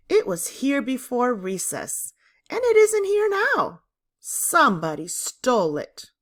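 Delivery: rising to a high, loud protest on isn't here now; a girl insisting her money was stolen; indignant outburst. A narrator's reading. Diane to the class, indignantly protesting her stolen money.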